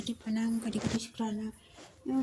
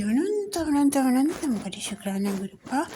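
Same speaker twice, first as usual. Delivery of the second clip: first word leaps much higher and louder, then stays up; rising fervent praise; 4 semitones higher, 4 dB louder than usual. Real, not acted. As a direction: burst out in devotional fervour. Climax of gratitude chant.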